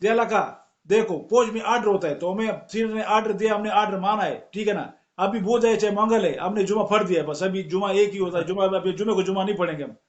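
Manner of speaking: lightly imitated Pathan accent; earnest explaining in a Pathan accent. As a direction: retell it with a touch of Pathan accent. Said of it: "जनाब एक वो पठान आया".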